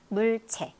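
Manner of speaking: normal talking voice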